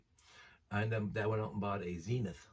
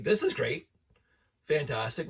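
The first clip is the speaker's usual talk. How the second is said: loud, higher, thrilled about the show; excited; 5 semitones higher, 7 dB louder than usual. Real, not acted. Fan gushing over his favorite show, excited. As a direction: burst out with fan glee.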